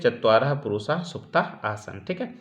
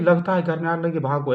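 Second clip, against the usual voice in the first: hurried alarm; 5 semitones higher than usual. Shown as a demonstration. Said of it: "इससे नहीं कि".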